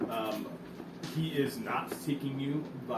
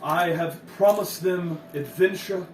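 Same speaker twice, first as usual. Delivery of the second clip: louder, pompous chronicle voice; grandiose narrator; 3 semitones higher, 6 dB louder than usual. Acted. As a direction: declaim like a vain storyteller. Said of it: "he says".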